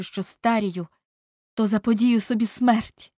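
put-on emphatic, bitter young man's declaration; embittered Dorian. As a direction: declare it with wounded conviction. (гірка, схвильована промова юнака)

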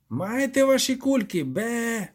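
high, ranting creature voice; raging goat devil. A narrator's reading. Devil hurls iron balls at intruders, ranting high. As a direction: rant like a furious goat demon.

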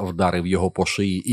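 ordinary delivery, nothing marked

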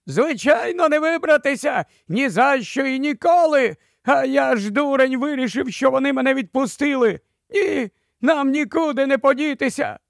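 high, frantic despairing wail. A narrator's reading. Ragged stranger wailing that there's no escape. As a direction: cry out in panic. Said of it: "раптом заволав".

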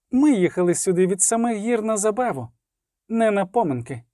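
high, cocky and teasing; brash elf woman. Acted. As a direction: demand fun like you own the place. Iskra's bold demands.

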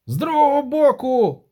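very high, loud squeal; shriek. Acted. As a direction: shriek a command during the chase. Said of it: "заверещав Денті".

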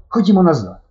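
голосніше, вище, наполегливо; рішуче кличе назад; рішучий заклик. A narrator's reading. Стьопка наполягає повернутися. (Стьопка голосно, рішуче кличе друга назад)

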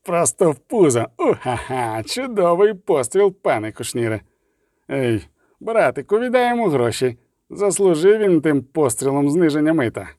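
hearty delighted sailor cheering; joyful roar. Acted. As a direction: whoop at a great shot. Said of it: "ревнув радісно".

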